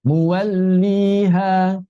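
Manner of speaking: 'Muwalliha' slow, unbroken double l; correct lam. Shown as a demonstration. Teacher gives the right take, correct lam. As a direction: carry the l smoothly through 'Muwalliha'. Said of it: "bukan begitu".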